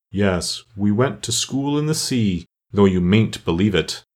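slow, doleful storyteller, understated; lightly voiced mournful turtle. Mock Turtle resumes his school history, mildly mournful. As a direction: draw the words out with a touch of sorrow.

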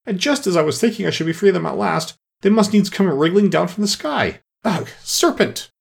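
high-pitched, agitated outburst; rising to shriek. A narrator's reading. Pigeon despairs of serpents from the sky, shrieking. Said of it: "raising its voice to a shriek".

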